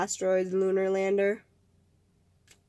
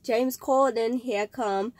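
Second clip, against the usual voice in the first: slow attempt at James Corden's British accent; badly faked British accent; slower than usual. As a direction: put on a clumsy, drawn-out British accent. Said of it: "That was such a bad accent".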